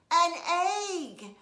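big dramatic reveal on egg; dramatic pause. A narrator's reading. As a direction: pause before an egg, then egg loud. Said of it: "he paused, real dramatic".

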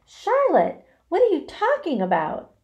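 high, loud, alarmed question; dismayed cry. A narrator's reading. Pig questions dying spider, dismayed high cry. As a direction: cry out, pitch leaping up. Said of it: "he cried".

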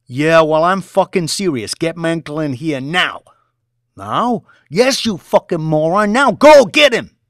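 loud, high furious orders; yelling orders. Acted. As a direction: bark at the trader.

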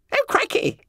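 high squeaky gasp of dismay. A narrator's reading. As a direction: gasp it out in shock. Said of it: "gasped Bunter".

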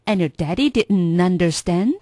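"And your daddy didn't understand" linked, rising end; linked drill echo. Shown as a demonstration. Learner repeating the whole line, linked "And your daddy didn't understand". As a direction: link "didn't understand" without the t. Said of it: "我们来分段练一下".

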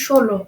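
ষোলো opening on a clear sh; palatal sh. Shown as a demonstration. Teacher gives a further example, ষোলো said with sh. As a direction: say ষোলো as "sholo". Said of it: "তালিবস্যর মতো হচ্ছে".

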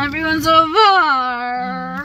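slow, half-laughing mock sob; mock crying. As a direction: whine it like a fake cry. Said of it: "so I'm just like".

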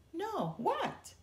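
high, keen and curious; eager question. A narrator's reading. Susie begging her friend for the gossip, eager. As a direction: lean in, hungry for news. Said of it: "asked Susie eagerly".

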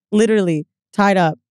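normal talking voice

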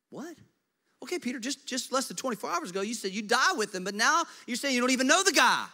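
high, loud disbelief; can you believe this guy; exasperated, high-pitched rebuke to Peter; incredulous scolding. Acted.

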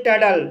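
टडल with the middle t as a d and silent r. Shown as a demonstration. Teacher shows learners an often mispronounced word, T said as D. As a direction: say टडल with a d sound, no r. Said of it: "टी को डी की तरह पढ़ा जाएगा".

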